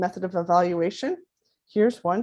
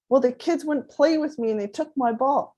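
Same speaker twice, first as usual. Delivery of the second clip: higher-pitched, lightly voiced child; upset little boy; 5 semitones higher than usual. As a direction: complain to Mom like a hurt kid. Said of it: "my little guy comes home".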